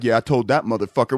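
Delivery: low, cocky imitation of a braggart; mock self-satisfied boast. Man boasts in his car after the threat, mock cocky. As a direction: lightly play someone pleased with himself. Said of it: "how can he sit there and be like".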